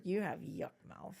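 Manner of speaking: put-on slow toddler bluntness; two-year-old girl. Toddler to preschool director about breath, slow imitated child voice. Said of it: "It sounded just like that".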